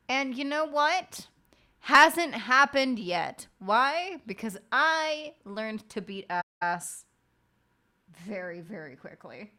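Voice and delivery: loud, high, drawn-out declaration; big rhetorical build-up; emphatic boast. Real, not acted. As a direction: punch each phrase hard, stretching it proudly.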